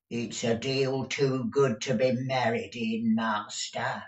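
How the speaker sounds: disapprove at a measured pace; grudging old housekeeper. A narrator's reading. Deaf Peg objecting to master's suit, grudging.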